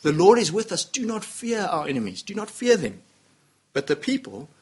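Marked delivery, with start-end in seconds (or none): 0.0-3.0 pleading encouragement. Retold or imitated. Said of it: "They plea with the people".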